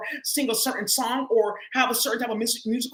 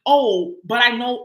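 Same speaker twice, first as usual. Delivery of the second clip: knowing; 6 dB louder, slower than usual. Pretend. Voicing someone who sees through.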